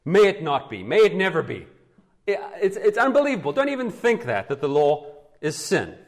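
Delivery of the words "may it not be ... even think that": rising insistence, pitched up by "Don't even think that"; emphatic denial. Acted. Preacher renders the Greek denial for the congregation, emphatically. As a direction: punch "May it never be" as an unthinkable idea. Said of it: "strong, emphatic statements".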